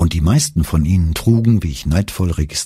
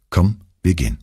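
calm. A narrator's reading. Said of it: "sagte ruhig".

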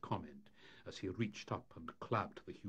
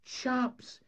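high, loud, excited call to the lads; enthusiastic; 8 dB louder than usual. A narrator's reading. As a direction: burst out with a bright idea. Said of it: "he said with enthusiasm".

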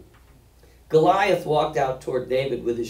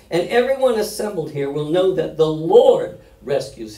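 raised declamation, with bursts of volume; forceful scripture reading; 4 semitones higher, 5 dB louder than usual. Acted. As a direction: proclaim the victory as David. Resumes dramatic reading.

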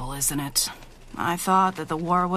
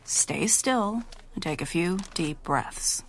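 gentle whisper. Acted. Nurse whispering to her patient during the checkup, gentle whisper. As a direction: whisper calmly while checking him.

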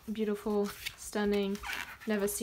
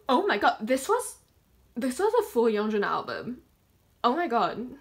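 excited; 5 dB louder than usual. Real, not acted. Discovering a full album by a singer, loud excited rush. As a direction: burst out with delight.

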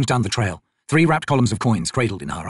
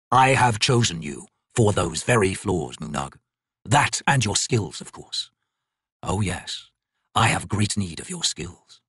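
loom over him, unhurried and low; god claiming the artisan for his flaws, low and slow; ancient god, menacing; 3 semitones lower, slower than usual. Acted. The god speaks to Moonag.

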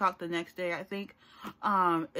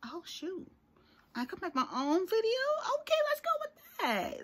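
retold excited thought; 10 semitones higher than usual. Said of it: "and I was like".

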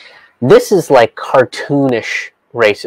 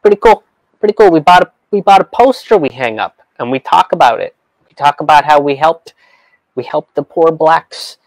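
condescending mock voice; 3 semitones higher than usual. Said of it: "And it's just like".

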